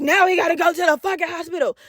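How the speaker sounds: mock a put-out, complaining mother; with attitude. Mom to her child with a broken elbow, with attitude. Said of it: "she always had a fucking attitude".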